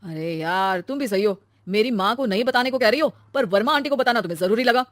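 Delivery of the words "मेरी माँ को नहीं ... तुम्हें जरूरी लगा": loud, annoyed husband; raised-voice reproach. Acted. Husband blaming wife for telling aunty, loud and annoyed. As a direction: accuse her with rising temper. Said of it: "चिल्ला क्यों रहे हो".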